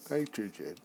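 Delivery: yawning through the word; said mid-yawn. Real, not acted. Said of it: "Sorry, I just yawned".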